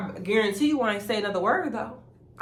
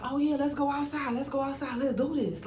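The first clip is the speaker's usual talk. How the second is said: hyped up; 8 semitones higher than usual. Retold or imitated. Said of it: "Like, she was hyped".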